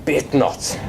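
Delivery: lightly voiced pirate; a hint of pirate in a short reply; play-acted pirate on the phone; pirate role-play. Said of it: "to do pirate lingo".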